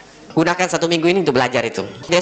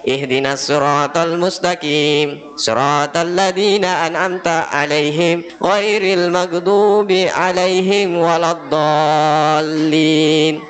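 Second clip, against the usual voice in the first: correct recitation; slower than usual. Shown as a demonstration. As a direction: give each phrase its space. (bacaan benar, pelan dan berlagu)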